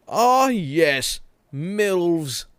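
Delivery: "milfs" said as milvs, with a v; "milfs" voiced as "milvs"; odd plural. Shown as a demonstration. Streamer reading chat, says "milfs" as milvs. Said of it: "Is that the plural?".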